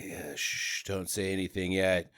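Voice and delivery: low, whispery shushing; secretive hush. Acted. Hero shushing wife in the auction crowd, secretive hush. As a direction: hush them under your breath, softly.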